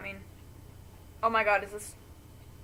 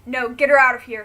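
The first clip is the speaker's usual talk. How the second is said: coughing out; 3 semitones higher, 14 dB louder than usual. Acted. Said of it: "he coughs".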